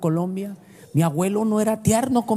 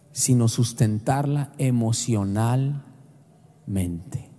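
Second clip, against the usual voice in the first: solemn voice of God; 10 semitones lower, 3 dB quieter, much slower than usual. Retold or imitated. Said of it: "me dijo".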